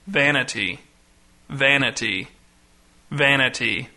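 lightly intoned, spaced-out sonorous reading; deep, sonorous voice. A narrator's reading. Pastor reading scraps from pulpit, deep and sonorous. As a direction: intone each word solemnly with pauses. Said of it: "in a deep, sonorous voice".

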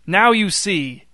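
high, loud, slow vindicated cry; triumphant shout. A narrator's reading. Newton holding the mask up to the crowd, triumphant shout. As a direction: hammer it home to the crowd. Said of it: "shouted Newton".

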